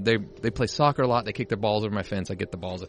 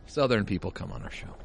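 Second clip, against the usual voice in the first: put-on Southern accent; 2 semitones lower, 6 dB quieter than usual. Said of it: "Mike doing a Southern accent".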